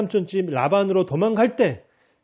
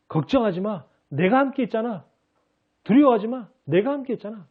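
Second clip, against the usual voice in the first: lightly voiced God, reassuring and a bit higher; voicing God's comfort; 6 semitones higher than usual. Preacher voicing God to the congregation, gently reassuring. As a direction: reassure like a God promising to stay. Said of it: "하나님이 이렇게 말하시는 거예요".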